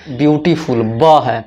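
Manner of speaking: ब्यूटीफुल followed by its first sound ब on its own; initial B sound. Shown as a demonstration. Teacher explaining which article precedes beautiful, initial B sound. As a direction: say ब्यूटीफुल, then isolate the consonant ब. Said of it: "इसका pronunciation क्या है?".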